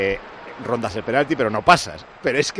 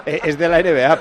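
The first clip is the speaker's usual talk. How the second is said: laughing; 3 semitones higher, 5 dB louder than usual. Real, not acted. Laughing at Parra's remark.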